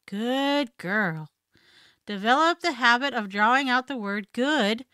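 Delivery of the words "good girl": drawn-out soothing voice; long, calming praise for a dog. Shown as a demonstration. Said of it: "Use a long sound to soothe your dog".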